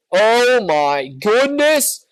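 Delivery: slow, high, loud astonishment; drawn-out amazement. Real, not acted. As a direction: stretch it out in shock. Reacts to fifteen-hour brisket.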